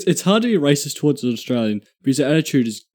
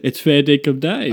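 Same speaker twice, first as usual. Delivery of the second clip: mock Australian accent. Guest introduces himself on the podcast, mock Australian accent. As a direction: put on a bad Aussie twang. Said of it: "what the fuck that accent was".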